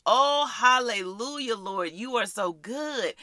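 rhythmic, repeated phrases of thanksgiving; prayer of praise. Real, not acted. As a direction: lead a grateful prayer aloud. Leads a practice prayer of thanks.

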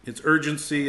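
normal talking voice

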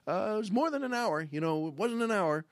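mild, tentative query to a wife; retold diplomatic husband; careful husband. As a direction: tiptoe into the complaint, casually curious. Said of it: "the way any husband would say it".

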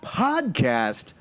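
slow grand announcer welcome; ringmaster. Acted. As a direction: draw it out like a showman.

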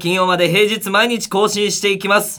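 high, loud announcer delivery; radio show opener. Acted. Host opening a student comedians' radio show, energetic announcer call. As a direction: belt out the programme introduction.

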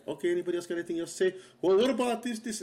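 rushed host, then a high, loud eager chime-in; mock coworker. The speaker imitating coworkers who drag out meetings, high and loud. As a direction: rattle off the wrap-up, then pipe up keenly.

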